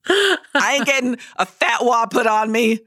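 high-pitched comic refusal rant; mock-indignant protest. Comic refusal to attempt accents.

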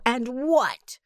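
breathy whispered "what" falling. A narrator's reading. Bospo pressing the old cat, whispering "And what?". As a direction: whisper "what", letting it drop.

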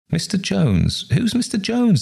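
high-pitched baffled question; acted astonished query; puzzled surprise. A narrator's reading. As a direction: ask it high, as if you've never heard the name. Puzzled guests question an unknown name.

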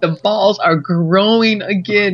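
slow, deliberate progress report; mock medical report. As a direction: pronounce the recovery slowly, word by word. Mock report on Travis's recovery.

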